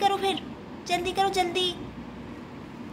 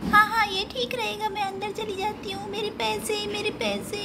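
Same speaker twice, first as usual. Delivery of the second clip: put-on small child voice, a bit higher; lightly voiced young girl; little girl Chunmun; 4 semitones higher than usual. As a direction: play the eager little sister.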